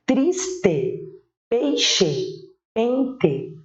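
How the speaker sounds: slow dictation-style "Triste, peixe, pente"; final E. Shown as a demonstration. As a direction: split "Triste, peixe, pente" into two beats, full E endings. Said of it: "é representado com a letra E".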